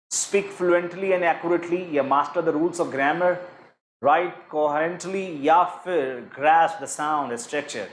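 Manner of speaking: slow, deliberate reading of the answer options; measured quiz-question voice. Shown as a demonstration. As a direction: read each option out slowly for the class. Teacher reads quiz options aloud.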